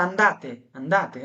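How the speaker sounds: "Andate, andate" stretched very slowly; slow teaching demo. Shown as a demonstration. Teacher showing the plural of go, slow and clear. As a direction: model "andate" slowly, twice. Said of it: "আর একের অধিক হলে তোমরা".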